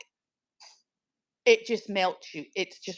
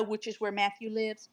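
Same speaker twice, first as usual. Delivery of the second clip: whispered aside; 10 dB quieter than usual. Real, not acted. Aside about Matthew.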